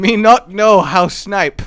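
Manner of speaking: lightly voiced caveman, slow; mock tribal caveman. Gamer joking about bad sniping, mock caveman. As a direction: drag out each word like a joking caveman. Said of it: "Are we tribal again?".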